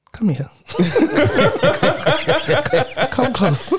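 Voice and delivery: high, laughing creepy crone voice; old woman whispering. Pretend. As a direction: lure them in like a witch. Playful creepy come-closer act.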